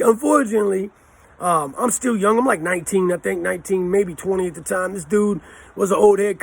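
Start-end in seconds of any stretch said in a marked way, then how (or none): 0.0-0.9 laughing at his own bad luck; rueful laugh. Real, not acted. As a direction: say it through a short laugh. Laughs at losing the fight.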